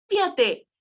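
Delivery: energetic telecom ad announcer. Shown as a demonstration. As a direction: sell it like a radio spot. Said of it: "puedes decir".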